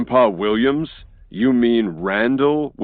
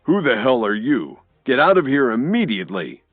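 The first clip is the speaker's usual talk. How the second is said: loud, raised angry yell; loud furious command; fierce shout; 6 semitones higher, 4 dB louder than usual. A narrator's reading. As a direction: throw him out with a shout. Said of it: "Cook shouted fiercely".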